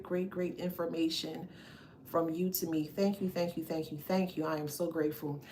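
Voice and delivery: soft, hushed thanks to Spirit; quiet prayer of gratitude to Spirit; grateful prayer. Real, not acted. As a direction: murmur heartfelt thanks, softly.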